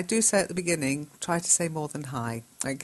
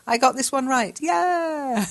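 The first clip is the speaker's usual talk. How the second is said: excited cheer; 9 semitones higher, 5 dB louder than usual. Acted.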